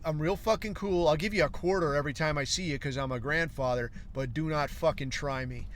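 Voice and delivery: cool grandfather, quietly stern warning; distant sternness. Retold or imitated. Grandfather lightly warns the kid not to try him, distant and stern. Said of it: "distant sternness to him".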